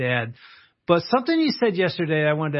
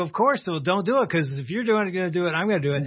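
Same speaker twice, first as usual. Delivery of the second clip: mock casual, nonchalant, no-big-deal delivery; 3 semitones higher than usual. Retelling how his nine-year-old son answered, imitating a nonchalant tone.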